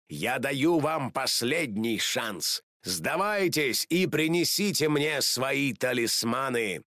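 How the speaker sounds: a lightly voiced villain giving his last warning; villain ultimatum. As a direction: deliver the ultimatum slowly.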